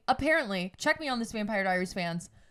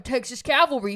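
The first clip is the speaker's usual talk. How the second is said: put-on Texas accent; 4 dB louder than usual. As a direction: imitate a sudden Texas accent. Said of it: "He also gets an accent out of fucking".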